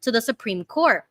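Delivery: steady, careful article reading; measured read-through of a news report; news article read-aloud. Acted.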